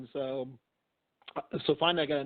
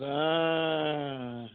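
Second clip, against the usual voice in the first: a short spooky ah from the unseen voice; lightly mimicked ghost groan; imitated ghostly moan. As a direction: give the spirit's moan, held briefly. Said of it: "the voice goes".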